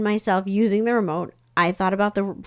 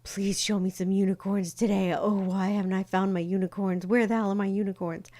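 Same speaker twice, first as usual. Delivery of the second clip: needy whining. Retold or imitated. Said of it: "every day go".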